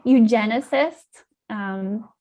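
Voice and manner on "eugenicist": EUGENICIST said slowly, louder and carefully; slow, careful pronunciation. Shown as a demonstration. Scientist repeats eugenicist for host, slowly and clearly. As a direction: sound out EUGENICIST a little slower, for clarity. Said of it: "say that word slowly".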